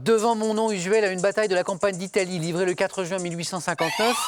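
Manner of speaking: measured quiz-host reading over music; quiz clue read. Acted. Host reading a clue to the contestants, measured and clear.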